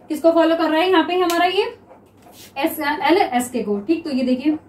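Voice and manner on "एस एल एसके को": slow, letter by letter; slow spelling out. Shown as a demonstration. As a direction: spell it out slowly for the class. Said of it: "teacher spells out slowly". (धीरे-धीरे अक्षर बताते हुए)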